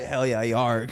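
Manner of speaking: surfer pirate. Pretend. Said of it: "almost like a surfer".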